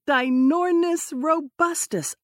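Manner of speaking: high squeaky bird-call voice; bird call imitation. A narrator's reading. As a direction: mimic a giant bird's call. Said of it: "mimicking the twelve-foot bird's calls".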